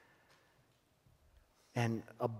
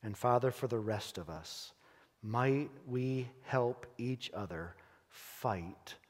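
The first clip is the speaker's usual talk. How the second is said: closing prayer. Acted.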